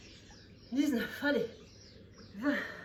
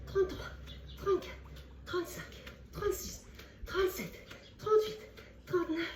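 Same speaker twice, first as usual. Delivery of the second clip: shouted encouragement; 8 semitones higher, 4 dB louder than usual. Real, not acted. Pushing through count, shouting.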